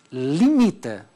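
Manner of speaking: ordinary talk, nothing marked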